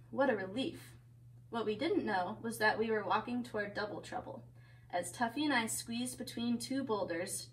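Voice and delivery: lively picture-book reading; story narration. A narrator's reading. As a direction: read a story to children.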